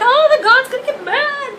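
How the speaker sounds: high, mocking churchgoer voice; mocking believer. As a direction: sneer it like a smug believer. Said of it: "Then you're like".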